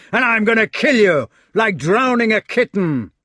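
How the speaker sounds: loud, high enraged scream; furious scream. Acted. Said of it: "The fat man screamed out".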